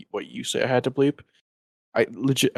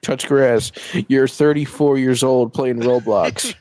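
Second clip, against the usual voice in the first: scornful jab; 2 semitones higher, 5 dB louder, slower than usual. Acted. Mocking Roblox players.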